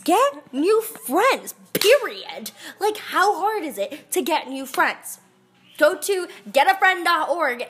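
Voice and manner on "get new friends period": loud. Acted. Tough-love rant to listener.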